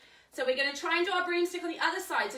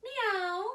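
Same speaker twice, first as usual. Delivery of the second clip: cat meow; 6 semitones higher than usual. Shown as a demonstration. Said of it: "what sound does the cat make?".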